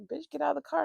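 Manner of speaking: high-pitched mock threat; retold high-voiced demand; imitating threatening ex.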